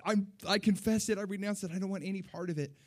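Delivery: retold desperate plea. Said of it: "literally on my face on the carpet".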